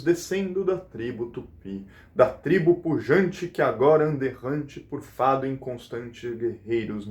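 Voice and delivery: rhythmic reading with weight on each stressed beat; poem recitation. Shown as a demonstration. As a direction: recite the verse in steady, measured beats. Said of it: "Eu vou ler ele".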